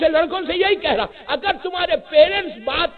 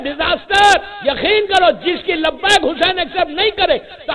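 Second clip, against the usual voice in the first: preaching at full force. Acted. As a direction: drive the message home to the crowd. Impassioned warning to congregation. (جوشیلا خطاب)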